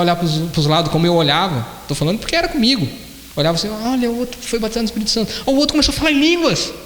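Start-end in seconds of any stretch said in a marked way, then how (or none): 3.7-6.7 higher-pitched envious bystander, rising at the end; imitated astonishment, pitched up; mock amazed onlooker. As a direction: mimic incredulous gawking at others' blessings. Mimics himself watching others get blessed.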